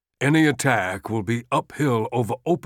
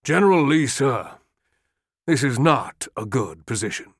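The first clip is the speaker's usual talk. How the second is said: rising, insistent appeal; urgent pleading; 6 semitones higher than usual. Acted. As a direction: press the general harder and harder. Longstreet pleading urgently with Lee.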